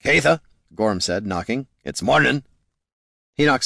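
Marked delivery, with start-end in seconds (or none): 0.0-0.4 rough warrior calling a name; gruff dwarf voice. Acted. Gorm wakes ranger at door. 1.8-2.4 gruff dwarf voice. Acted. Gorm wakes ranger at door.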